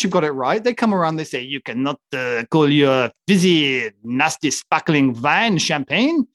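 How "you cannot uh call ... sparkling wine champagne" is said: slow, mock German accent, lightly done. The French scolding winemakers, in a slow mock German accent. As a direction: play the French rule-makers with a hammed-up German accent. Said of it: "The German accent".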